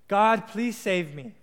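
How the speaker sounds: slow, drawn-out appeal to God; praying plea. Acted. Man on a flooded roof praying to God, drawn-out plea. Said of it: "this man prays".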